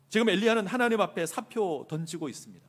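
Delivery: normal talking voice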